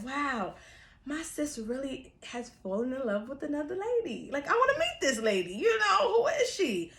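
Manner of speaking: giddy tipsy gushing; drunk excitement. Retold or imitated. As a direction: gush about it like a tipsy fan. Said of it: "I'm really drunk".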